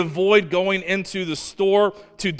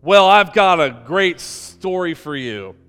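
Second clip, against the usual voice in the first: put-on eager old man; 3 semitones higher, 6 dB louder than usual. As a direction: jump in keen to tell a tale. Old man excited about story.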